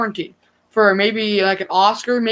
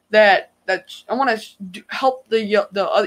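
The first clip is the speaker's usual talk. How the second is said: slower stuttering, stammering speech. A YouTuber talking to viewers about their channel, stuttering. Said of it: "And now I'm stuttering".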